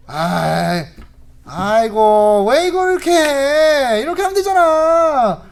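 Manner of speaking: drawn-out groan into loud high nagging; husband nagging his wife loudly, whining. Retold or imitated. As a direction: whine and nag like a fussy husband. Husband nags beside wife.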